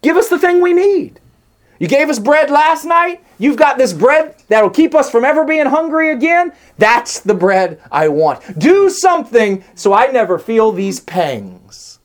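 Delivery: high, pleading crowd voice; voicing the crowd. Preacher voicing the crowd begging Jesus for bread, high and pleading. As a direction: beg like the hungry crowd. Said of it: "They responded as most of us do".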